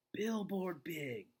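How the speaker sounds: breathy whispered awe at the size; hushed, slow and thrilled; excited whisper. Acted. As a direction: whisper it like a big secret. Child announces a huge plan.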